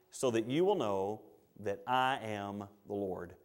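solemn God voice. Acted. God speaking to Ahab.

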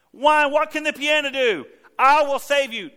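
high, loud desperate cry; God shouting at stubborn people; God screaming. Retold or imitated. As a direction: yell as God being ignored. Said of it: "God's stomping and screaming".

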